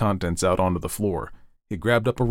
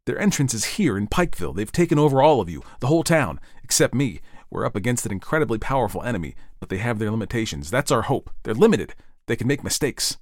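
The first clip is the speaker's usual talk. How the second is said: raised pitch, pressing explanation; urgent Ed; 4 semitones higher, faster than usual. Acted. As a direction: make an urgent case to a doubter.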